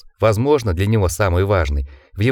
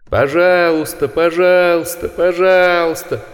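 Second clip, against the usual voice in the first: higher, louder, slow mocking chant; inhuman chorus; 8 semitones higher, 4 dB louder, slower than usual. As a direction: chant it like beasts, drawn out. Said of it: "хор нечеловеческих голосов". (хор нечеловеческих голосов, протяжно и громко)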